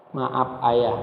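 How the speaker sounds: low, subdued daughter's apology; contrite. Retold or imitated. Crying daughter apologising to her father, contrite. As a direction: confess softly, pitch dropped. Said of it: "Anaknya bilang apa?".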